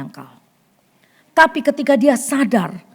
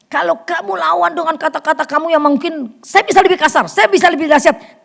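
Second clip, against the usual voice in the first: acted angry retort; 5 semitones higher than usual. Acted heated quarrel with relative.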